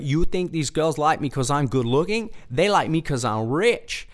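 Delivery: light mock Vietnamese accent; Tom Vu. Real estate seller boasting about girls, mock Vietnamese accent. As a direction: lightly imitate a Vietnamese infomercial pitchman. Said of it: "I remember doing Tom Vu".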